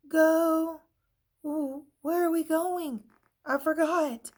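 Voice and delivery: high, loud scatterbrained voice; airheaded and cheerful; ditzy eraser. A narrator's reading. Eraser confused.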